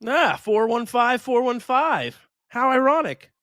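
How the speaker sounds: high, drawn-out ironic reveal; delighted, slow announcement; amused excitement. Real, not acted. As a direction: savour the coincidence, slowly. Announcing tied averages, amused.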